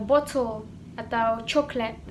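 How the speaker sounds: "bottle" and "chocolate" with rounded O; British round O in "bottle", "chocolate". Shown as a demonstration. Teacher listing vowel examples for learners, round O. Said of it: "benar-benar O bulat gitu".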